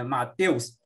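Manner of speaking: "Mateus" said slowly; slow comparison reading of "Mateus"; slow demo. Shown as a demonstration. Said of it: "você vê aqui".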